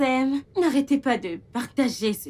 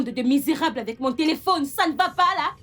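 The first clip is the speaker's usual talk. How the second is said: angry scolding. Acted. Madame catches them with her phone.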